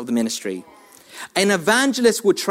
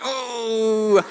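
God speaking; 5 semitones higher, slower than usual. Retold or imitated. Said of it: "almost like God was like".

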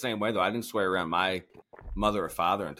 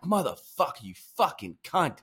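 muttered self-cursing; 5 semitones higher than usual. Retold or imitated. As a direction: curse at the job, pitched up. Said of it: "just, like, talking to myself".

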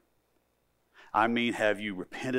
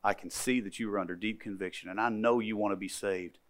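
gentle deacon; 3 semitones lower, 9 dB quieter than usual. Retold or imitated. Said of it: "he says to her".

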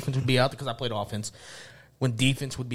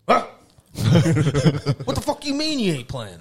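dad yelling; 4 semitones higher, 6 dB louder than usual. Retold or imitated. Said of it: "my dad's up there in the stands".

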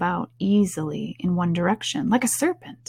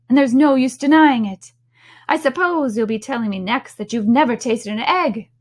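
scoffing pigeon; 3 semitones higher, 4 dB louder than usual. Acted. Pigeon insisting Alice is a serpent, scornful. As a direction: argue it with scornful certainty.

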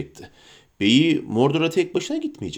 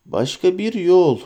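doubtful; 4 semitones higher, slower than usual. Acted. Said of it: "dedi Frodo kuşkulu kuşkulu".

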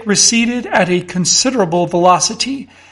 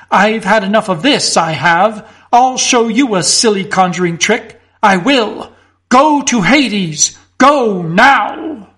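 fierce outburst. Acted. Mister Fotheringay turning on the constable, fierce. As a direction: snap at the constable, building to a cry. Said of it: "He turned on the constable swiftly and fiercely".

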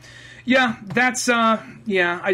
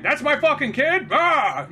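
mock outraged cry, higher pitched; shocked father; 6 semitones higher, slower than usual. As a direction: burst out in disbelief, pitch jumping up. Acting the shocked movie father.

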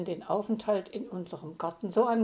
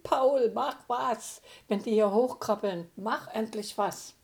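fluttering cries for help; 2 semitones higher, 6 dB louder than usual. Acted. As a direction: beg him desperately to do something. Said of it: "rief verzweifelt".

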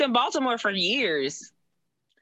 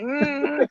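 short strained "mm", higher pitched; pained hum; 4 semitones higher than usual. Acted. Guest imitating her own forced smile, pained hum. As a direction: hum as if wincing from a backache. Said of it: "looks like you're in pain".

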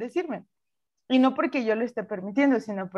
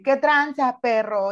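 tough street greeting; 3 semitones higher, 4 dB louder, slower than usual. Pretend. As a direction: greet coworkers like a tough homie. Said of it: "Como mostrarme como así". (saludo de barrio, duro y fuerte)

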